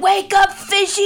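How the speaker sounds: put-on high, loud bratty kid squeal; Darla from Finding Nemo. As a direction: shriek it like a wild little girl. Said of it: "she's like".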